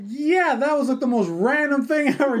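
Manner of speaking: tag. Retold or imitated. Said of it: "I'm like".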